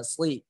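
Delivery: "sli" as a thick emphatic s plus i; shad kasrah tebal. Shown as a demonstration. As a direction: lift the tongue back for "sli". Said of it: "pangkal lidahnya naik". ("sli" tebal, pangkal lidah naik)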